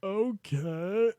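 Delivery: a dropped low "Okay."; "Okay." said low and quiet. Retold or imitated. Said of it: "his voice is lower than Mickey's is when he goes".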